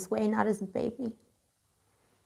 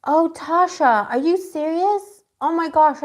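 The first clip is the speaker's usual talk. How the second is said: higher, slow, drawn-out gasp of dismay; stunned, stretching out each word; shocked sympathy; 7 semitones higher, 4 dB louder, slower than usual. Real, not acted. Reader hears viewer's brother died, stunned and sorry. Reacting to viewer's sad news.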